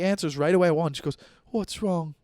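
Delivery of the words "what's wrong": lightly voiced worried mother; a touch of mock concern, as mom; imitating worried mom. Mom answering a late-night call from her son, mildly worried. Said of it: "she'll get worried".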